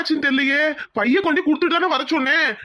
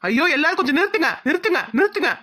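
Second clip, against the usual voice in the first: urgent, raised-pitch plea to stop; exasperated appeal; 3 semitones higher than usual. Acted. Groom begging everyone to stop arguing, exasperated appeal. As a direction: cut in on the quarrel insistently. Groom halts the family quarrel.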